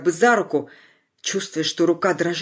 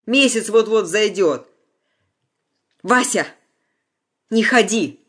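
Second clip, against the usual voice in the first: raised, pleading cry; 4 semitones higher, 4 dB louder, slower than usual. A narrator's reading. Anya cries out to Vasya not to go, raised voice. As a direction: call out to stop him. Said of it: "выкрикнула Аня".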